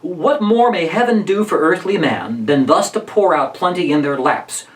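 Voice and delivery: measured iambic recitation; rhythmic verse reading. Shown as a demonstration. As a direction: let the meter of the verse carry it. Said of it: "there's a change in rhythm here".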